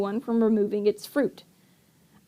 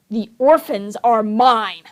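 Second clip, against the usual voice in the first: insistent. Acted. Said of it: "Count Olaf insisted".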